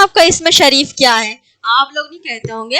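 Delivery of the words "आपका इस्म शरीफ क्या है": demonstrating a polite question. Shown as a demonstration. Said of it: "हम कहते हैं कि आपका इस्म शरीफ क्या है".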